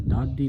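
ਦਾਦੀ with a doubled middle consonant; tight adhak. Shown as a demonstration. Teacher models for the congregation, ਦਾਦੀ said tight. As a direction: hold the middle of ਦਾਦੀ, dad-dhi. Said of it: "ਇਹ ਕੱਸ ਕੇ ਬੋਲਣਾ ਹੈ".

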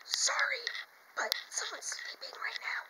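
keeping quiet. Real, not acted. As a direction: speak very softly so a sleeper isn't woken. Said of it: "I have to be quiet".

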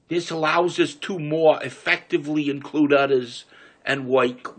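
reading aloud in a New York City accent. Shown as a demonstration. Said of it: "I'm gonna read in the New York City accent".

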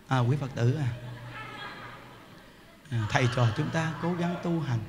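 low, soft, subdued sermon voice; placid preacher. Acted. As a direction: preach with all the energy drained out. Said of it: "gặp mà im điềm".

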